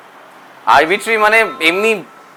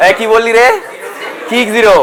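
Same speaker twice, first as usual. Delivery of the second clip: mock surprise; 4 semitones higher, 4 dB louder than usual. Teacher mock surprise at answer.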